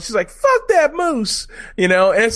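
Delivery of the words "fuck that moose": high, loud, slow yell of disgust; shouting Fuck at a charging moose. Retold or imitated. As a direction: bellow it out at the dead moose. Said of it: "she yells out".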